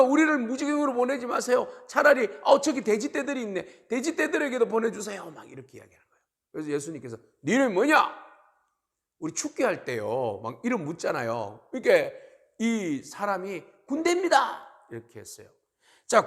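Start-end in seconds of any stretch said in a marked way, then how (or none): 0.0-5.3 high, loud begging; acted high-pitched plea; pleading demons. Acting demons begging Jesus. 7.4-8.2 loud, raised-pitch demand; acted loud interrogation; commanding question. Acting Jesus questioning the demon. 13.9-14.7 very high-pitched cry; acted high demon voice; demon answering. Acting the demon answering Jesus.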